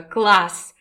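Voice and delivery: a pleased shriek; happy squeal. A narrator's reading. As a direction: squeal it with delight. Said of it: "Довольно взвизгнув".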